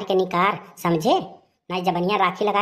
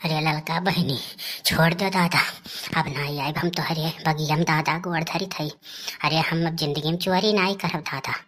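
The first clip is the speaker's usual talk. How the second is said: pleading; 2 semitones lower, 4 dB quieter than usual. Acted. Caught lychee thief begs the orchard owner, pleading. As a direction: plead quietly, drawing out the words.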